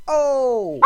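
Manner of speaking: high loud burst of laughter; delighted whoop and laugh. Real, not acted. Laughing at his own anime story, a loud high whoop. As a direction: whoop then laugh at the joke.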